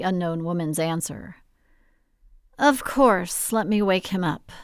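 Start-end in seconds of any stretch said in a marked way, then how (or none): 2.6-4.5 sultry taunt. Acted.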